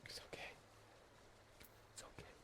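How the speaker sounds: whispered comfort; soft reassurance. Acted. Comforting the frightened refugee, whispered and gentle. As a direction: whisper it's okay to calm him.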